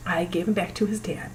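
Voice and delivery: unvoiced whispered confession; a pained whisper. Real, not acted. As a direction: breathe it out, barely voiced. Painful confession, voice drops.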